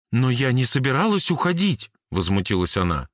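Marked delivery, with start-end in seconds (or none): 0.1-1.9 put-on higher girl's voice, indignant; indignant Jane. Jane protests to Cory, mildly indignant. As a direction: bristle at the accusation.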